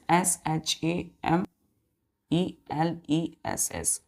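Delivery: each letter of सेमलेस drawn out slowly, one by one; slow spelling. Shown as a demonstration. Teacher spelling a word slowly for young pupils. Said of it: "teacher spells word for children".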